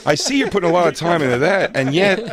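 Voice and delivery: snooty white-glove inspector. Retold or imitated. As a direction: point out the dust smugly. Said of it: "He goes".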